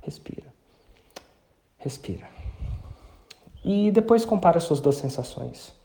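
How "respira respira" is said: calm yourself down gently; calming self-talk. Shown as a demonstration. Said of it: "você só vai".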